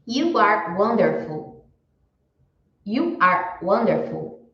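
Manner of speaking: slow, careful English; slow model sentence. Shown as a demonstration. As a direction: model it slowly for students. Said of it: "quando eu falo".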